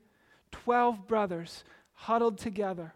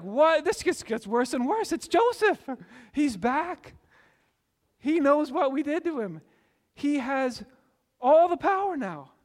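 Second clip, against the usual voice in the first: much higher, louder rising mock panic; hammed-up dread; 6 semitones higher, 6 dB louder than usual. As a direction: spiral into comic terror. Brothers panic realizing Joseph's power.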